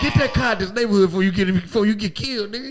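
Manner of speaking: mad as hell. Retold or imitated. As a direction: imitate a furious friend shouting threats. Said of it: "he was mad as hell".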